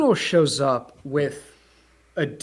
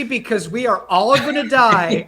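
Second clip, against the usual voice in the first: needy Steve; 6 semitones higher, 4 dB louder than usual. Retold or imitated. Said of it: "Steve's like".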